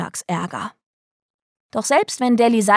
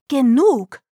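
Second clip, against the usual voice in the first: short higher outburst, moderately raised; exasperated shout; 4 semitones higher, 4 dB louder than usual. A narrator's reading. Mother silencing Delly, exasperated shout. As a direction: cut the child off with a contained shout. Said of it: "schrie Clarice".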